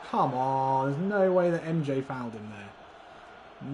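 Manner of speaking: loud, slow indignant complaint; indignant protest. Real, not acted. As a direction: protest the call in disbelief. Protesting a foul.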